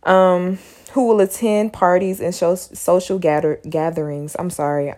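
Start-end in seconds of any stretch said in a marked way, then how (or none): 0.9-4.4 tripping over the words while speaking; stuttering. Real, not acted. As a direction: stumble on the words, restart them. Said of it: "I'm stuttering".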